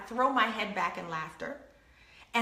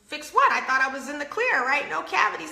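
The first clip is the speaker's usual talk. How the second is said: high, loud startled question; surprised; 3 semitones higher, 4 dB louder than usual. Retold or imitated. Retelling to audience, startled high "Fix what?". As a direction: caught off guard at the dentist.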